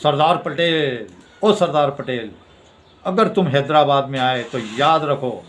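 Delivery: धमकी. Retold or imitated. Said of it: "तरह से धमकाया". (धमकी भरे अंदाज़ में ललकारते हुए)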